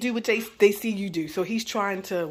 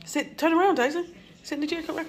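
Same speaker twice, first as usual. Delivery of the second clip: higher, firm order to sit; firm command; 8 semitones higher than usual. Real, not acted. Mother ordering her son Tyson to sit in his chair, high and firm.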